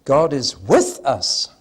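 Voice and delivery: slow, loud "with" in "God is with us"; stress on with. Shown as a demonstration. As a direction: put the weight on "with". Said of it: "Meaning number three".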